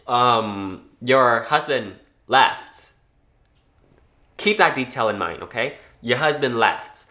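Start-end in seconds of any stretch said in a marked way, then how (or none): 1.0-2.9 slow rude delivery. Shown as a demonstration. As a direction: say it rudely, dragged out. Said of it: "I didn't say it rudely like that".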